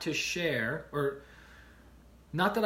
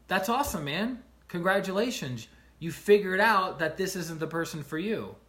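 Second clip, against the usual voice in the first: higher, upbeat congratulation; cheering friends; 3 semitones higher, 4 dB louder than usual. Retold or imitated. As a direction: celebrate with him like a buddy. Roommates cheering him up.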